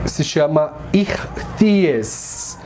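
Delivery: "irthies" said very slowly; teacher models "irthies" slowly; careful Greek word. Shown as a demonstration. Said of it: "a gente pronuncia irthies".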